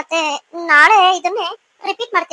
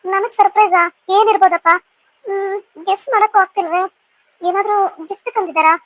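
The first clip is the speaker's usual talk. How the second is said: louder, eager guessing to herself; bubbling with curiosity about the surprise; excited wondering; 3 dB louder than usual. Acted. Wife waiting alone, wondering aloud what the surprise is, excited.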